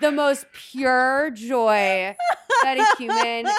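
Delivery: laughing while talking. Real, not acted. Gushing about pure joy.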